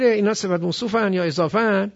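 normal talking voice

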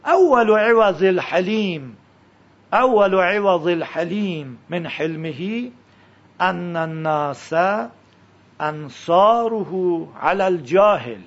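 slow, measured Arabic text reading; Arabic recitation. Shown as a demonstration. Teacher models the saying for students, slow careful recitation. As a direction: read it out slowly, word by word.

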